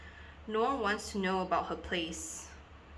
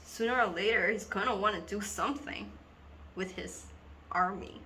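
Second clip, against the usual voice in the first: earnest schoolgirl confiding, halting with long pauses; Dina. Acted. Schoolgirl tells two boys about being hypnotized in assembly, dramatic confiding. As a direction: confide a dawning, troubling realization in dramatic monologue.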